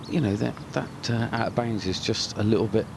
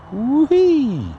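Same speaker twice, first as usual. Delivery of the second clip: excited whoop; 9 dB louder than usual. Real, not acted. Thrilled yell during drone flight.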